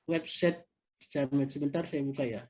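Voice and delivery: muffled behind a face mask; talking through a mask. Real, not acted. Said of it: "izin ya pakai masker".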